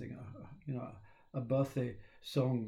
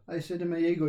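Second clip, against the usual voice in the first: ordinary talk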